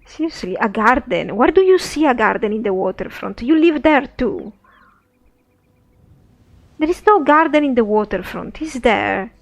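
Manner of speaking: loud, fed-up protest; exasperated adventurer. Acted. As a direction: complain like you're being played for a fool. Sophia disbelieving the beggar.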